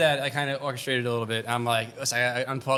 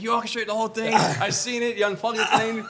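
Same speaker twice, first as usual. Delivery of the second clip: half-laughing hammed-up accusation; angry bartender; 7 semitones higher than usual. Retold bartender accusing him.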